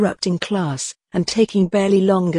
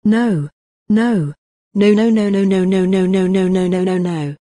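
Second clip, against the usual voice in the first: panicked denial. Acted. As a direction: repeat no in mounting panic. Horrified repeated denial.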